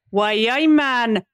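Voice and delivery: tentative Geordie catchphrase; Geordie accent. Shown as a demonstration. Warming up to do accents, Geordie accent. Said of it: "for Geordie, I have to go".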